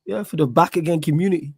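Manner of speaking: hoarse, worn-out voice. Real, not acted. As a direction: voice gone from shouting. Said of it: "my voice is gone from yesterday".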